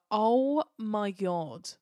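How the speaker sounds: long-drawn-out amazement; retold shock. Fan recalling the first time watching the twist, drawn-out shock. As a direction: stretch it out slowly in recalled disbelief.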